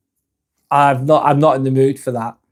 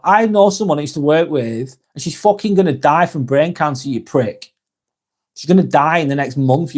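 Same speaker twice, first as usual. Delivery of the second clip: annoyed rant. Real, not acted. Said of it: "I got a little bit annoyed there".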